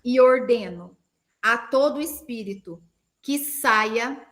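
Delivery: spaced-out prayer declaration; measured, pausing between words; slow with pauses. Shown as a demonstration. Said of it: "Eu vou falar pausadamente". (oração pausada e firme)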